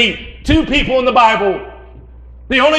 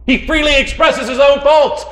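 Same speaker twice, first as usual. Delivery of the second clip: raised, higher preaching emphasis; emphatic; 3 semitones higher than usual. Real, not acted. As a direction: drive the point home.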